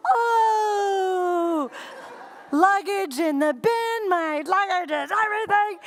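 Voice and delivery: self-mocking laughing wail; embarrassed laughing cry. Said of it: "I'm red as a beet".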